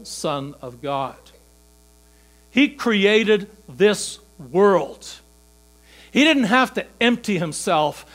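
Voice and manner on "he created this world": slow and louder, each word weighed; slow emphasis. Acted. Preacher stressing God's power, slow and weighty. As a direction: spell it out slowly for weight.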